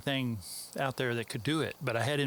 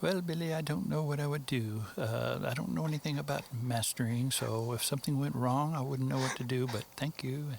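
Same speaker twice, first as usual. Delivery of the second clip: fake English accent. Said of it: "my fake English accent".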